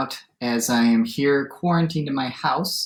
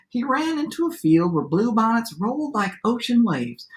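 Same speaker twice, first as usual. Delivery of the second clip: lively storyteller read-aloud with swooping pitch; story narration; 6 semitones higher than usual. A narrator's reading. Teacher reads a favorite adapted fairy tale aloud, lively storytelling. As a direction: read it to children as a tall tale.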